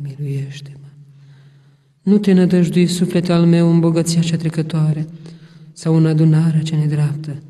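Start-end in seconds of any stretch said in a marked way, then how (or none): none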